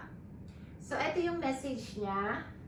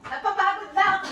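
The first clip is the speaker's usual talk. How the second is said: laughing tiredly; 8 semitones higher, 4 dB louder, much faster than usual. Real, not acted.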